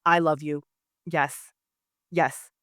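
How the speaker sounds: mean every word, smitten; earnest declaration. Retold or imitated. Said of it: "But he took it as".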